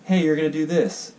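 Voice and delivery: a hammed-up Governor General settling it; mock command. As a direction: lay down the law like an official. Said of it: "the Governor General comes over and says".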